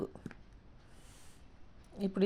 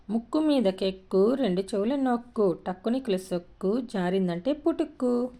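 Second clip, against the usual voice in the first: sing-song verse with drawn line endings; rhythmic riddle reading; 3 semitones higher than usual. Shown as a demonstration. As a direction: recite it as a children's rhyme. Reads a riddle rhyme.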